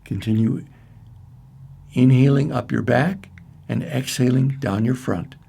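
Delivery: measured meditation guide with long pauses; spacious, evenly paced guided imagery. Acted. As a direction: lead listeners gently through a visualization, unhurried. Leads a guided centering meditation.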